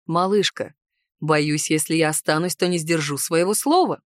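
a restrained husband's sigh, held back; sighing man. A narrator's reading. Husband explaining why he must leave, low sighing voice. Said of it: "вздохнул он".

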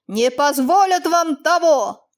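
barely contained rage; hissed. Acted. Master hisses at the peasant in anger. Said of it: "больше прошипел он".

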